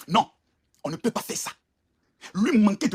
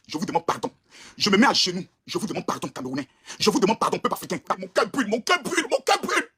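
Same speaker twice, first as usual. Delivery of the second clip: mock begging; 6 semitones lower than usual. Begging forgiveness on his knees.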